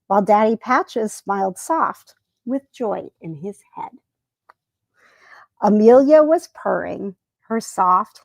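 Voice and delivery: a gentle, lightly paced rhyming read-aloud with a few slowed lines; poem reading. Acted. A lightly voiced bedtime poem read to the viewers.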